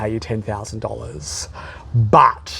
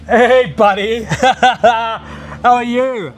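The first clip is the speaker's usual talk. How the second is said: much higher, soothing hey-hey with laughs; calm him down like a spooked animal; coaxing; 8 semitones higher than usual. Acted. Coaxing a startled rival.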